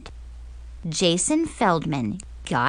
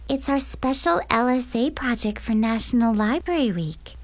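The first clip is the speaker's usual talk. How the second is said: flirty; 4 semitones higher than usual. Acted. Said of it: "batted her eyelashes at him, all flirty-like".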